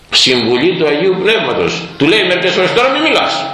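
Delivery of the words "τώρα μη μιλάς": high, sudden stop; sharp hush. Retold or imitated. The elder stops the disciple mid-word, sharply. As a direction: cut him off high and quick.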